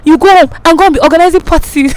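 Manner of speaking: high, shrill-free loud scolding mimicry; hammed-up angry woman chasing her out; mock furious yelling. Wife scolds her in class, high mock yell. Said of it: "She was like".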